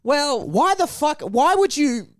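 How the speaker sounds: high, slow exasperated; outraged complaint; indignant outburst. Real, not acted. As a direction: burst out in disbelief. Indignant at the teacher.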